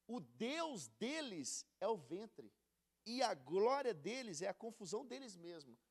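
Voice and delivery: slow, stretched verse reading; scripture reading. Acted. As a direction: lean into each word of the verse. Rereads the verse slowly.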